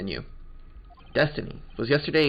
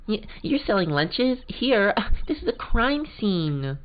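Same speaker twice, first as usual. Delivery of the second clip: put-on much higher, surprised young girl; high girl's voice; 9 semitones higher, slower than usual. Girl questioning the lunch seller at a crime scene, high and baffled. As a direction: pitch it up and sound baffled.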